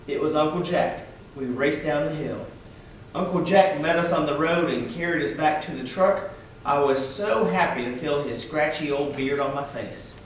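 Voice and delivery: expressive read-aloud for schoolchildren; story narration. A narrator's reading. Reading a picture book aloud to schoolchildren, storyteller voice. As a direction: tell it gently to a class of kids.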